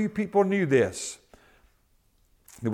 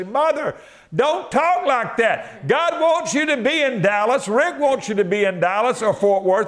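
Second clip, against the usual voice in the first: higher, earnest urging; urging mother; 5 semitones higher than usual. Retold or imitated. Son urging his elderly mother to believe, higher and earnest. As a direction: lift her faith with pleading energy.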